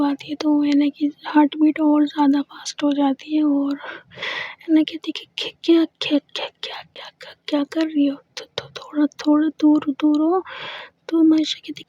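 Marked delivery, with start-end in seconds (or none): 5.6-10.4 stuttering, breath-soft and rushed; nervous stammer. Acted. Aina pushing Maysha away, softer nervous stammer. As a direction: trip over every word, heart racing.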